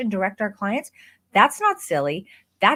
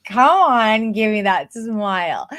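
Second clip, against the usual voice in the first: louder, hyped-up "come on" to a client; coaching voice; 7 dB louder than usual. Shown as a demonstration. Photographer showing viewers her energetic coaching tone. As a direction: cheer them into a smile. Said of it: "my vocal intonation went from the way that I'm talking to you to, like".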